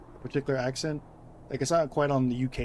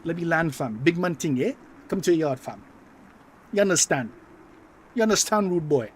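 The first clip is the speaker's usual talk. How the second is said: put-on loud, higher London roadman accent with patois; London mandem slang; 4 semitones higher, 6 dB louder than usual. Imitating UK mandem talking to a mate, in a loud roadman accent. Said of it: "mandem of, like, the U K".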